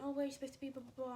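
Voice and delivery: mild mock scolding trailing into blahs; mocking teacher. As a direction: mimic him scolding, short of shouting. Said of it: "Mister Bagel starts shouting, not, not shouting".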